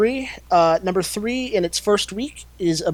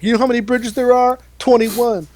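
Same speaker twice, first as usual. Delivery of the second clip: mock dramatic line; 6 semitones higher, 5 dB louder than usual. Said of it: "where it's like".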